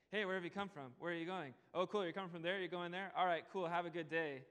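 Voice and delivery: breezy, offhand passing chatter; casual small talk. Retold or imitated. A shallow modern reading of God's questions, breezy and offhand. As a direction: toss the questions off like a neighbour in passing. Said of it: "easy to read those questions as like".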